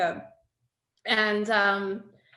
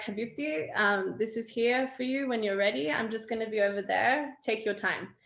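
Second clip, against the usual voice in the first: gentle and soothing. Retold or imitated. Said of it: "I was like".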